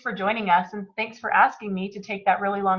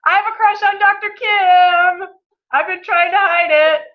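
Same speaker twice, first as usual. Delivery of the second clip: giggly; 9 semitones higher, 6 dB louder than usual. Pretend. Teasing confession amid laughter.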